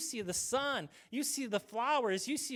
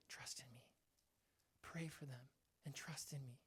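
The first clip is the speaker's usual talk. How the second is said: much softer, low, hushed reply; God's quiet answer; 7 semitones lower, 15 dB quieter than usual. Pretend. God answering a worried believer, hushed and low.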